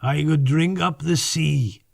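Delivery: slow, lightly voiced fox creature; musing, lightly characterised; character voice. Brownstone's held character voice.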